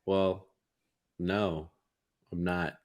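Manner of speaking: halting, soft, word by word; awkward, deflated hesitation; sheepish reply. Retold or imitated. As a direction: trail down quietly with awkward pauses.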